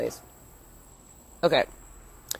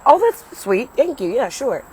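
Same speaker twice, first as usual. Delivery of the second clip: high-pitched, louder retold gratitude; acted sweet thanks; 6 semitones higher, 5 dB louder than usual. Woman re-enacts accepting his lift offer, acted sweet thanks. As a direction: gush a thank-you, re-enacting it. Acts out her grateful reply.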